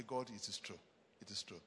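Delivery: quiet, earnest affirmation; hushed confession. Acted. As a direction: let it fall to a hush. Preacher drops to hush.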